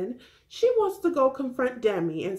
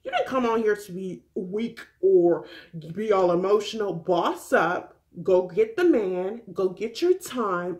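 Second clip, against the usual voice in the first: sassy pep talk. Retold or imitated. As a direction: snap her out of it like a blunt best friend. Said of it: "I'm like".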